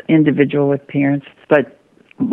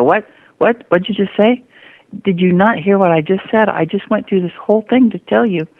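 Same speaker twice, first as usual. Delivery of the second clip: put-on indignant kid; 5 semitones higher than usual. Kid suddenly hears the part.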